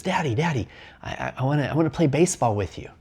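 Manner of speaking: a hint of a small boy pleading to play; little boy voice. Boy asking his busy dad to play: light child voice.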